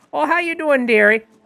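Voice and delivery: put-on Midwestern accent. Speaker voices a greeting, giving them a Midwest accent. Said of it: "give them the uh, the the Midwest accent".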